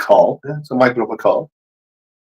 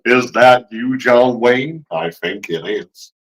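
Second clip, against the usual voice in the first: John Wayne; much slower than usual. Acted. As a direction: drawl it out like a western hero. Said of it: "you sound like John Wayne".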